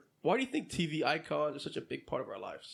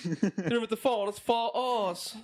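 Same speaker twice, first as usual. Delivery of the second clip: hammed-up British voice, higher and drawn out; mock British accent; 4 semitones higher, much slower than usual. Riffing for friends on how British sounds better, mock British accent. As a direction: put on a silly British accent. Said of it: "hit us with a little British accent".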